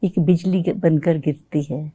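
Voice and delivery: slow, measured poem recital; stately nazm recitation. Acted. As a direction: recite it like at a mushaira.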